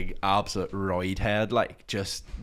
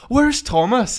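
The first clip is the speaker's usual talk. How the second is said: high, loud searching question; retold cry, voice shot up; acted urgent demand; 14 semitones higher, 10 dB louder, slower than usual. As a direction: imitate a friend demanding answers. Brona arrives demanding the friend.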